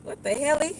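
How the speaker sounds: high squeal of disbelief; mock surprise.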